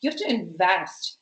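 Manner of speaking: "invest" punched as the key word; stress on INVEST. Real, not acted. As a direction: lean hard on "invest". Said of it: "putting so much emphasis on that word".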